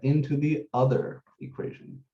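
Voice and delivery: "other" set apart with emphasis; stress on OTHER. Real, not acted. Teacher summing up substitution steps for students, stress on "other". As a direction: land firmly on "other" before finishing with "equation". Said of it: "I wanna emphasize the word other".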